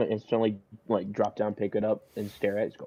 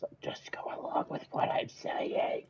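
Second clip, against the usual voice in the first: slow conspiratorial whisper; hushed, drawn-out stage whisper; 10 dB quieter, slower than usual. Acted. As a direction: whisper it secretly to an accomplice. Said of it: "squat back down to the box and whisper".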